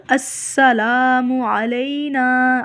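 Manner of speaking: slow السلام علینا with a hissing sin; slow whistled sin. Shown as a demonstration. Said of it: "سین کو اچھی طرح سی ٹی کے ساتھ". (السلام میں سین سیٹی کے ساتھ)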